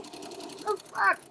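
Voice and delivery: breathy aside, barely voiced; whispered disbelief. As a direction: mutter it under your breath in disbelief. Cashier mutters in disbelief.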